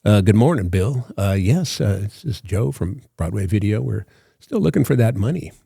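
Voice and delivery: lightly voiced tough-guy debt collector; a hint of tough-guy phone patter. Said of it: "he was a tough guy".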